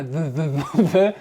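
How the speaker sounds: THE repeated as a bare voiced th syllable; mock repetition drill. Teacher imagining pupils practising at their screens, mock drilling THE. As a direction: imitate someone drilling "the" over and over. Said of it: "Vous imaginez en train de répéter".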